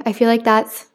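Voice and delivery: slightly winded, catching breath. Real, not acted. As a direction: talk while still out of breath. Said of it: "I'm out of breath".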